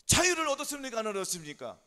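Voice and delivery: high, very loud question; triumphant preaching shout. Real, not acted. Preacher proclaiming the pigeon's freedom to congregation, loud shout. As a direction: burst out to rouse the congregation.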